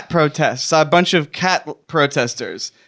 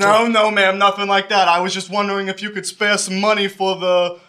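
lightly put-on cop solicitor patter; police voice; 2 semitones higher than usual. Shown as a demonstration. Solicitor asks old lady for police fund donations, police voice. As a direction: reassure her with a hint of official fundraising voice. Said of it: "Say it in your police voice".

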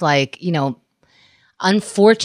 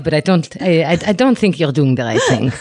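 put-on light Israeli accent as the foreign mother; a hint of an Israeli-accented mother; mother's Israeli accent; 2 semitones lower than usual. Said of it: "when you do that accent".

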